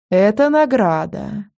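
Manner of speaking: slow, purring seductress; femme fatale. Acted. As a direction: purr it like a temptress. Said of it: "промурлыкала Селена".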